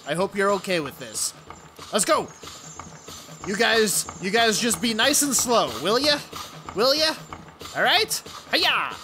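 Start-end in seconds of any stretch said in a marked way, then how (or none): 3.5-8.9 high, sweet coaxing. Acted. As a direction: coax the little mice gently.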